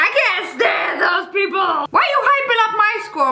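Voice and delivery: fed up, calling them out; annoyed. Real, not acted. Vlogger annoyed at score-hyping classmates, exasperated rant. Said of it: "annoyed rant".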